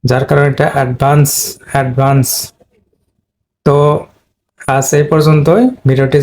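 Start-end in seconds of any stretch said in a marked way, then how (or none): 0.8-2.3 অ্যাডভান্স with the stress on the second syllable; stress demo. Shown as a demonstration. Teacher showing students the second-syllable stress. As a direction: say অ্যাডভান্স, hitting "vaans". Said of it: "stage পড়েছে second সিলেবলে".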